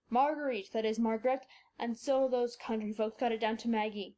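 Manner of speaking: low voice, lecturing with delight; a proud old German explaining; excited old doctor. Acted.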